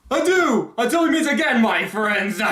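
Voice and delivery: high, loud theatrical villain farewell; flamboyant, over-the-top cartoon villain impression; Doctor Eggman. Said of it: "Cesar Romero Joker-esque theatricality".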